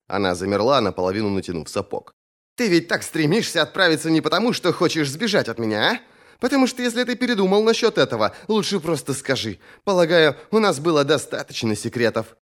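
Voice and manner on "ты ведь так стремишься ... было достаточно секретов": high, pressing female character voice; suspicious questioning in a raised pitch; challenging Thorn. A narrator's reading.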